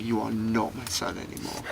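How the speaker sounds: scary quiet anger, held back; intense, not shouting. Retold or imitated. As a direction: disown him without raising your voice. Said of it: "when they're not shouting".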